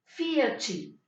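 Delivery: Fiachi repeated with the chi ending; calm model of Fiachi ending in chi; Brazilian pronunciation. Shown as a demonstration. Teacher repeating the word for students, calm demo. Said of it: "va a tener el sonido chi".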